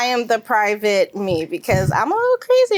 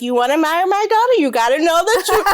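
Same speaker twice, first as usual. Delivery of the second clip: put-on mom warning boyfriend; 3 semitones higher, faster than usual. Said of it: "that's what she would say".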